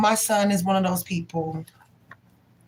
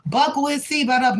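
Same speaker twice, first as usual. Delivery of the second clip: went off; 4 semitones higher than usual. Retold or imitated. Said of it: "Like, I went off".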